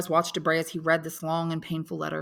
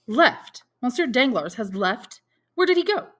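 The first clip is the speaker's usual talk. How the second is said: high, sharp rising disbelief; can't believe what he just heard; shocked disbelief; 8 semitones higher, 6 dB louder than usual. Acted. Debray stunned that the baron has fled, incredulous.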